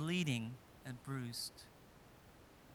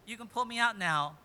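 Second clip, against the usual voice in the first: louder, nervous 'very funny' to the brothers above; mock laughing it off; 2 semitones higher, 6 dB louder than usual. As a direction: brush it off as a joke, a bit forced. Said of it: "he's thinking".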